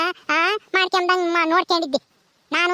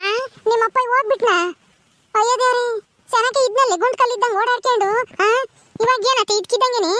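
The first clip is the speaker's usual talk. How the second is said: put-on wailing old granny; 3 semitones higher than usual. Deaf granny mishears, wails.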